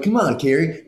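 lightly hammed Aiden pleading. Actor demoing Aiden's voice to hosts, upswung bro whine. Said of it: "everything goes up".

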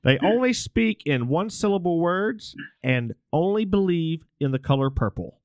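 lightly voiced late-night radio host; half-hearted talk radio host impression; Art Bell. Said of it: "This is Art Bell".

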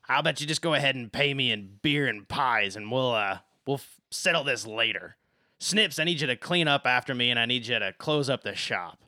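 brisk, loud shopkeeper in charge. Acted. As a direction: wrap up business and hand out orders. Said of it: "and she says".

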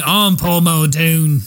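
mock Australian. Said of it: "why we continue to do these accents".

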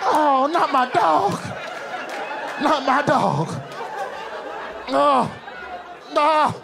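very high, slow, stretched outcry; horrified high wail. Retold or imitated. Fans learning Idris eats beans, very high slow wail. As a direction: wail in mock heartbreak. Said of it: "They're like".

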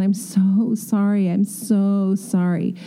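slow, groveling "I'm so sorry"; hat in hand apology. Retold or imitated. Designer mocks a groveling apology to the client, slow and meek. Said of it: "hat in hand".

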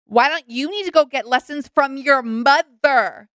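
mock confrontation. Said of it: "She gets in his face and she says".

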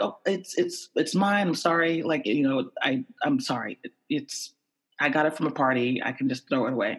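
stammering, flustered apology; haltingly trying to explain yourself. Retold or imitated. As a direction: fumble for the words, apologizing as you go. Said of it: "getting really flustered".

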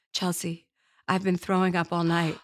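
put-on soft, whimpering child voice; a sick kid at night; sick niece. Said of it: "and Seneca's like".

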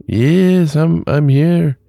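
put-on high, loud, drawn-out Hispanic accent; slow, high call in a put-on Hispanic accent. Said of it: "he's got a Hispanic accent".

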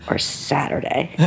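a hushed whisper of the punchline; friend's whispered question over speakerphone. Retold or imitated. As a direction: whisper it like a confession.

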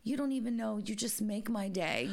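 lightly voiced grateful elderly woman; a hint of a delighted old cashier; grateful old lady. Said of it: "she laughs and she goes".

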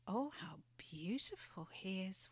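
soft breathy whisper of awe. Acted. Thumbelina whispering to the swallow in awe, hushed. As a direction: hush it, as if he might vanish. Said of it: "whispered Thumbelina to the swallow".

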